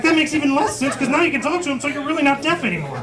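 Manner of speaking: high-pitched mock exasperation; incredulous objection. Comic picking apart his buddy's cochlear implant plan, incredulous objection.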